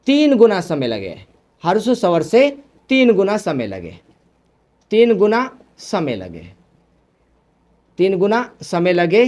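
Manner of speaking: phrase-by-phrase delivery with long pauses. Real, not acted. Teacher giving students the third definition, paced dictation. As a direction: dictate it in short, repeated pieces.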